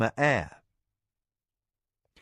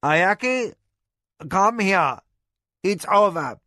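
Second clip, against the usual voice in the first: firm; 7 semitones higher, 5 dB louder than usual. A narrator's reading. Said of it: "Jikan said firmly".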